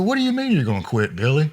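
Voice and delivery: incredulous. Retold or imitated. Questioning Billy in disbelief.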